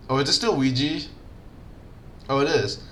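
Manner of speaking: plain reading voice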